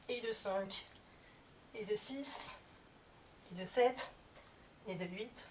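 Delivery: counting reps mid push-up; strained, breathy counting between reps; doing push ups. Real, not acted. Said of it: "je vais faire cette série de dix pompes".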